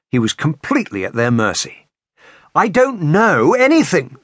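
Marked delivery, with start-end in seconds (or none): 2.5-4.2 high, urgent plea; breathless pleading. A narrator's reading. Captive begging his tormentor, breathless high pleading. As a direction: plead helplessly, pitched well up. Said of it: "he pleaded, breathless".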